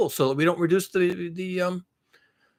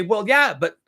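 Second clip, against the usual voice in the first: smug imitation; 3 semitones higher than usual. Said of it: "then you're gonna say".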